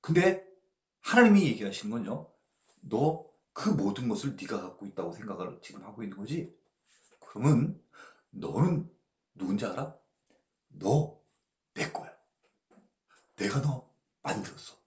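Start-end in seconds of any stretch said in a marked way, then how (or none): 2.8-14.7 God speaking. Retold or imitated. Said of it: "하나님이 이렇게 얘기하시는 거예요".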